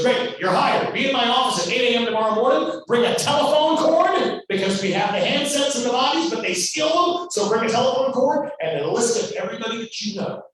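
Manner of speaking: brusque producer. Retold or imitated. Producer hiring the young actor, a mock brusque boss. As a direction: bark out the instructions like a hurried mogul.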